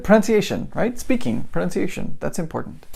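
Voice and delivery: light bulb moment, pitched high; thinking aloud, excited and high; eager realization. Retold or imitated. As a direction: voice jumps up high on pronunciation. Deciding where to start.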